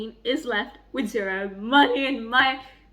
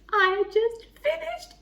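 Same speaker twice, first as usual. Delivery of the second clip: drawn-out delight; 11 semitones higher, slower than usual. Real, not acted. Finishing the book.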